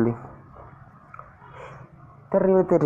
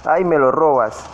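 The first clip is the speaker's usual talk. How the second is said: surprised outcry; 5 dB louder than usual. Real, not acted. Kill stolen in game.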